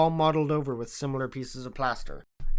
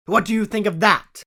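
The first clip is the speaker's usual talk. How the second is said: delighted; 7 semitones higher, 8 dB louder than usual. A narrator's reading. Delighted Holmes asks.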